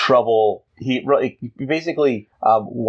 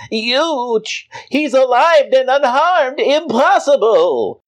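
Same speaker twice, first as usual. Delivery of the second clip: high, loud stunned alien cry; shocked villains; 12 semitones higher, 3 dB louder, slower than usual. Acted. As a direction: shriek in disbelief. Aliens shocked Superman survives.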